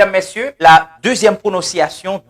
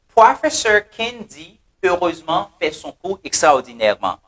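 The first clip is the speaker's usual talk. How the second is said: "Professor Kendi heureusement fait son cours extraordinairement" dit posément, chaque initiale marquée; slow mnemonic read. Shown as a demonstration. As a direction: say the mnemonic clearly for memorizing. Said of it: "We say". (phrase mnémotechnique lue lentement et clairement)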